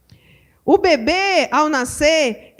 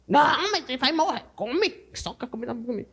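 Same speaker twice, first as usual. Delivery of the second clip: insistent mother; 2 semitones lower, 6 dB quieter than usual. Retold or imitated. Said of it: "O menino tá falando".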